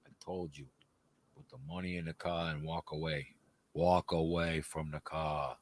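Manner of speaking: quiet movie gangster giving orders. Acted. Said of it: "That was my best, uh, generic, gangster guy".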